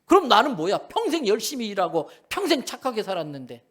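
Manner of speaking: loud, high-pitched indignant protest, easing slightly; acted anger. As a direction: protest the unfairness, acting outraged. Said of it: "막 화를 냅니다". (화내며 따지는 흉내)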